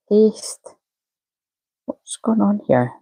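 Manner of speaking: a soft whispered "Paste."; whispered to herself. Real, not acted. Host whispers the step while fixing links. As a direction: whisper the word as you do it.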